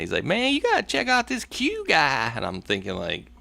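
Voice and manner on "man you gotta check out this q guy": a retired Marine's Southern accent, voiced lightly. Recalling the Marine who first mentioned Q, in a Southern accent. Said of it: "you know, Southern accent".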